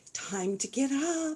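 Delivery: soft, gentle little voice, high and slow. Recalling how their mother woke the kids each morning, in a soft little voice. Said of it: "my mother would come with this soft little voice".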